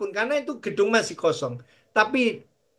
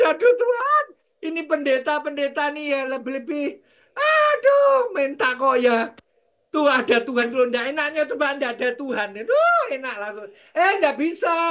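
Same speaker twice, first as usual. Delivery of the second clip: whining complaint; 5 semitones higher than usual. Retold or imitated. Pastor grumbling to God about pastors giving, whiny. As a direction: moan it like a grumbling servant.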